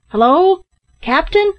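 high, searching holler; shout. A narrator's reading. Ned seeks the hidden captain, shouting. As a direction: call out loudly for someone out of sight. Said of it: "shouted Ned".

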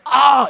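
exclaimed "ah". Retold or imitated. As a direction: let out a big mock "ah". Friend's reaction, retold as a cry.

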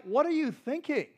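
exasperated parent. Retold or imitated. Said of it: "It's kinda like".

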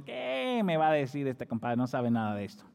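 dismissive disbelief. Acted. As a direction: scoff at the know-nothing under your breath. Acts out fisherman's dismissive private reply. (incredulidad desdeñosa, alargando el "Qué")

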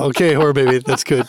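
put-on talking to a baby. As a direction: gently humor the toddler. Father talking to toddler.

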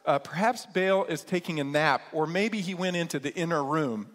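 mocking, teasing jab at the prophets; playful sarcastic mockery; sarcastic taunt. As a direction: needle them with sarcasm. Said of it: "Elijah gets super sarcastic with them".

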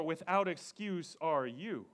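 "without" up front, slow; slow Yoda-order line, "without" stressed. Shown as a demonstration. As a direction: hit "without" in "without excuse are you". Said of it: "it's worded".

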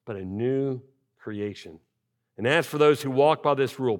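measured, solemn reading of the letter; scripture reading. Acted. Pastor reading Paul's letter to the congregation, solemn. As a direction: read the apostle's words with weight.

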